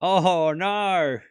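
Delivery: drawn-out Australian "oh no"; Australian accent. Shown as a demonstration. Showing chat an Australian accent, mock dismay. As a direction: ham up the Aussie vowels on "no". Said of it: "with a believable Australian accent".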